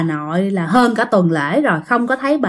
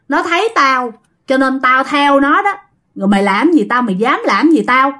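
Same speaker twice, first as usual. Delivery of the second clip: defiant spirit; 3 semitones higher than usual. Acted. Possessed grandma defies exorcist.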